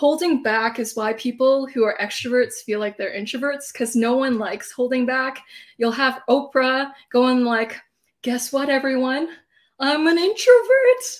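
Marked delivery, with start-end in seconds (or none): 8.2-11.0 bubbly, extroverted, loud, lively, rising delivery. Imitating Oprah telling everyone she is an introvert, in Oprah's extroverted voice. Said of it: "In her extroverted voice".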